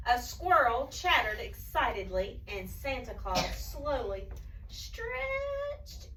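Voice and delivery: slow, expressive storybook narration; story reading to children. A narrator's reading. Reading a Christmas tale to children, animated storytelling. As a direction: draw out the action words for young listeners.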